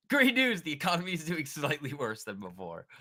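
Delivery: loud, high mock-cheerful announcement; sarcastic cheer. Real, not acted. Streamer mocking the market, sarcastic cheer. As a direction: fake enthusiasm for bad news.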